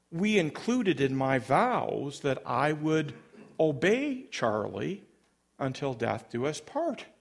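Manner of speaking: lightly nostalgic retelling; reminiscing. Retold or imitated. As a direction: look back fondly on wedding vows, understated. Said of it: "in a style almost reminiscing".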